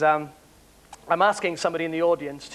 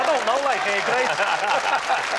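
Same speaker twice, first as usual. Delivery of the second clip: exaggerated Merseyside accent, pitched up; Birkenhead accent; 6 semitones higher than usual. Shown as a demonstration. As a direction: slide into a Birkenhead Scouse impression. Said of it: "like you're in Birkenhead".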